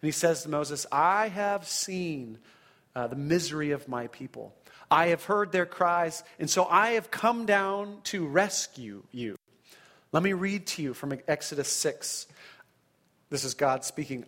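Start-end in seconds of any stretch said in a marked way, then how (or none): 0.9-9.4 slow, measured divine speech; voice of God. Acted. God promising Moses to rescue his people, slow and solemn.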